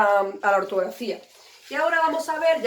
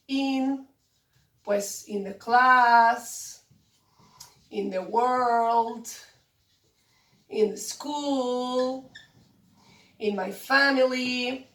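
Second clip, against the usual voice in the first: slow dictation; much slower than usual. Shown as a demonstration. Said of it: "teacher lists examples slowly".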